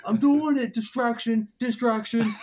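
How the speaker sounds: high, strained robot voice; robot-y, staticky voice. Acted. Mister Pitt distracting the crowd, robot-y voice. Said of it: "his voice all robot-y and staticky".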